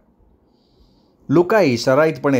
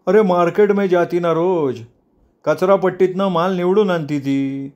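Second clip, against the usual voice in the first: higher-pitched, matter-of-fact explanation; explaining sidekick; 5 semitones higher than usual. Acted. Sidekick tells the boss where she gets vegetables, explaining. Friend explains the girl's daily pickings.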